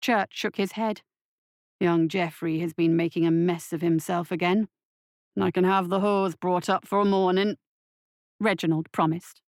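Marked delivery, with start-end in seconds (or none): 1.8-7.6 lightly voiced gruff orderly, a little low; a hint of a surly hospital worker; grumbling orderly. Orderly reporting a mess to the doctor, lightly gruff.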